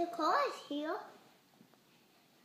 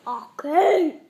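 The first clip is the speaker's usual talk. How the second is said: laughing; 13 dB louder, much slower than usual. Real, not acted. Child laughing loudly.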